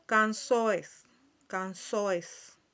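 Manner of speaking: canzoes as "can-SO-es". Shown as a demonstration. Teacher shows the S sound, canzoes said carefully. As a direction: model canzoes slowly with a clear S. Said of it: "la pronunciamos como si tuviera una S".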